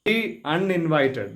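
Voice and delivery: slow ദി with a long ee before അൺഇൻവൈറ്റഡ്; drawn-out "thee". Shown as a demonstration. Teacher models article before vowel sound, ദി held long. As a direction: stretch ദി, then say അൺഇൻവൈറ്റഡ് clearly. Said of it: "ദി നീട്ടി പറയണം".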